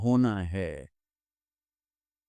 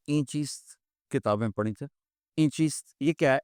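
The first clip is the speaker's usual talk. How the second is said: innocent question; 4 dB quieter than usual. Acted. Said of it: "بڑے بھول پن میں کہتے ہیں".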